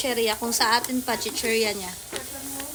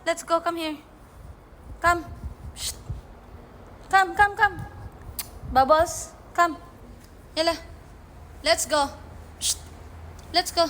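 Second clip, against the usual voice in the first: coaxing the cat; 4 semitones higher than usual. Real, not acted.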